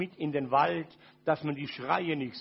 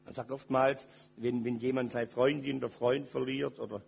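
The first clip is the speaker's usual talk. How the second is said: much lower and softer, near tears; very soft and lower, grieving; broken-hearted; 8 semitones lower, 7 dB quieter than usual. Real, not acted. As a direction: let it sink into a hushed grief. Heartbreak confession, voice fading.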